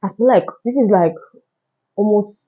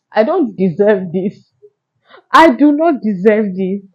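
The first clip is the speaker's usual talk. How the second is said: slow, crying protest; tearful lament; 2 semitones higher, 3 dB louder, slower than usual. Retold or imitated. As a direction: plead against fate through tears. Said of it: "I was crying".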